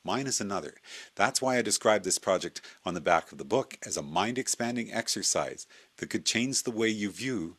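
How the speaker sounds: measured, articulate reading with lively intonation; narrated lecture read from a script; scripted essay read-aloud. Acted. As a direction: present a prepared essay, phrase by phrase. Reads prepared essay aloud after chatting.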